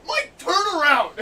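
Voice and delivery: loud, high call of a name; urgent shout. Retold or imitated. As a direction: yell his name to warn him. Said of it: "my manager's just like".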